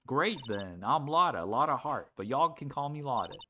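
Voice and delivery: easygoing, lightly Southern; casual Southern country woman; Lotta's southern accent. Acted. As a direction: speak with a light Southern twang. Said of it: "She has a southern accent".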